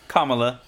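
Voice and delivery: Kamala with stress on the first syllable; corrected pronunciation of Kamala. Shown as a demonstration. Co-host correcting the host, Kamala said KAH-muh-luh. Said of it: "but, you know, you close".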